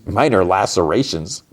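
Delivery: disbelieving repeat, pitch bobbing questioningly; incredulous echo. Real, not acted. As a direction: echo it as if you can't believe it.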